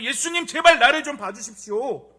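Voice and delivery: high, loud, impassioned cry; all-out pleading. Acted. Blind man begs Jesus to look at him, all-out loud plea. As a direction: plead at full force. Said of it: "자신의 모든 에너지를 다해서".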